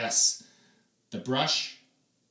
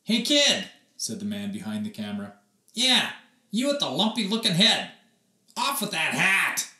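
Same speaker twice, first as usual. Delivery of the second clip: brusque photographer; 3 semitones higher, 4 dB louder than usual. Acted. Gruff photographer.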